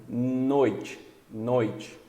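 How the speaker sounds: noite with a lingering nasal N at the start; held initial N. Shown as a demonstration. Teacher shows the Portuguese N sound, noite with a held N. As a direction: stretch the N that opens noite. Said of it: "Qual que é o som do N".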